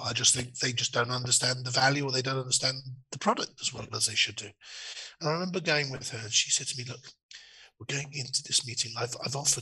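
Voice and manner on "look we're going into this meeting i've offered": whispered, quieter. Retelling what she said before going into a meeting, whispering. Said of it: "I don't know why I'm whispering".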